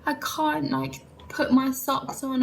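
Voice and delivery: high, slow complaining voice; upset whine. Retold or imitated. New mum complaining to boyfriend she can't dress, high and slow. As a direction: plead your helplessness in a small high voice. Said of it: "I was saying to him".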